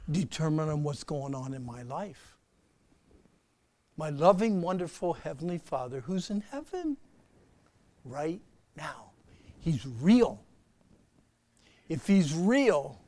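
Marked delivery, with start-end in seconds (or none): 4.0-9.1 slow loving prayer. Shown as a demonstration. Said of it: "slow down and talk to him".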